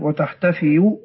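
وتحتفئوا with a light y glide, no hamza; وتحتفئوا said with undoubled ya. Shown as a demonstration. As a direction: soften the ending of وتحتفئوا to -fiyu. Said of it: "بتخفيف الياء".

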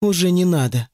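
ordinary delivery

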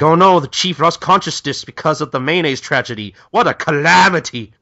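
high, loud hammed-up dismay; mock lament. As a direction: cry out in mock tragedy. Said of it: "all the troops are like".

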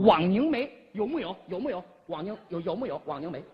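cute voice. Acted. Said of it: "你不要说的这么萌好吗".

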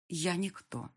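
ordinary delivery

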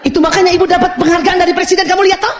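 high, rushed self-justifying retort; defensive mother. Acted. Mother justifies her work to her child, shrilly defensive. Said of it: "Nggak usah juga bertahan".

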